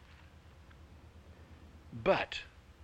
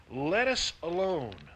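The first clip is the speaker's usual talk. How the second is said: demon crying out; 5 semitones higher, 3 dB louder, slower than usual. A narrator's reading. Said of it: "and he cried out".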